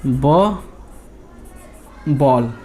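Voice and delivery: ब said alone, then the whole word बॉल; sounding out a word. Shown as a demonstration. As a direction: build बॉल from its first sound ब. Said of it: "तो देखिए कैसे पढ़ते हैं इसको".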